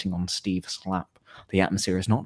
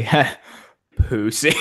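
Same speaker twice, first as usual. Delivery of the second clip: mocking; 3 semitones higher, 3 dB louder, slower than usual. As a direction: taunt a friend who backed out.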